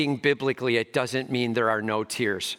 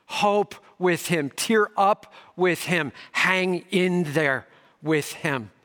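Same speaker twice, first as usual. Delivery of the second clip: slow exhortation; 3 semitones higher, slower than usual. Acted.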